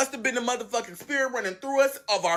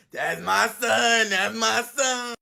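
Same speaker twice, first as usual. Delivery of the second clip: amused; much slower than usual. Retold or imitated. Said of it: "She laughing like the shit is funny".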